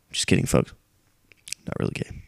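hushed whisper to the viewers; whispered aside. Real, not acted. Vlogger whispering a joke aside to his viewers. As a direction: let it slip out as a secret.

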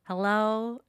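loud, high cat-like hello; yowling cat. Retold or imitated. Host imitates her cat through the walls, yowling. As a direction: meow the word like a cat calling. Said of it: "it sounds like she's saying".

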